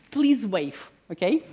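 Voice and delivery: breathy whisper through a laugh. Real, not acted. Speaker teasing the audience, laughing whisper. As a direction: whisper it with a chuckle.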